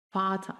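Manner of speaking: "Vater" ending in an open A; vocalized final R. Shown as a demonstration. Teacher demonstrating "Vater" with final R as A. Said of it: "suena como una A al final".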